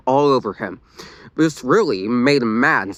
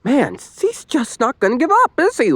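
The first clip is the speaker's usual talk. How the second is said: moaning; 12 semitones higher than usual. A narrator's reading. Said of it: "Lila moaned".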